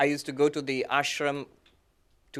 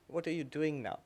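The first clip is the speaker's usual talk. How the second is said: imitating an old guru, much softer; very gently; 9 dB quieter than usual. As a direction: ask it quietly and kindly, like a gentle old teacher. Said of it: "he very gently said".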